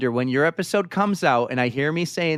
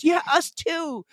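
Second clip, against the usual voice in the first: wry agreement; slower than usual. Retold or imitated. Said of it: "And she goes".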